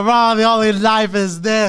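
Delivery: slow, loud creepy threat. Acted. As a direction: lean into a creepy menace. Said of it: "that was a bit creepy".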